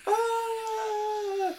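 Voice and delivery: high, loud cheering crowd voice; cheering fans. Retold or imitated. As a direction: yell it like a wild fan in the stands. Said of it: "You can just imagine the fans".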